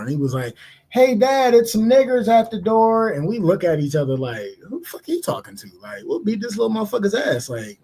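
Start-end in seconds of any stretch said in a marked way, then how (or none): 0.9-3.1 put-on kid calling his dad. 4.7-7.5 mock outrage. Friends' indignant reaction retold.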